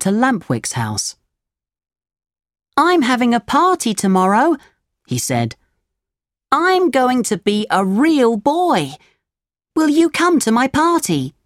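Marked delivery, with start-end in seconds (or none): 2.8-11.3 put-on excited puppet boy. Pinocchio voiced in story.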